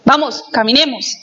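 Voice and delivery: brusque, clipped order; a blunt demand to start walking; curt command. Shown as a demonstration. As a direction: order them to move, no warmth. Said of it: "Eso es totalmente diferente".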